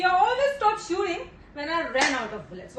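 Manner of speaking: quoting in a put-on British accent; mimicked British accent. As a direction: imitate a British officer's accent. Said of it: "what an accent". (अंग्रेज़ी लहजे की नकल)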